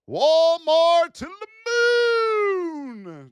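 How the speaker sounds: very slow, high, loud drawn-out cry; mock hype. Trader jokingly hyping Walmart, very slow and high. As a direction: stretch it out like a mock rally cry. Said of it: "Just kidding".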